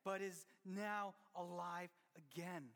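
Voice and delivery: slow, solemn father's declaration; slow, heartfelt father's words; tender father. Retold or imitated. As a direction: say it slowly, full of love. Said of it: "his dad said".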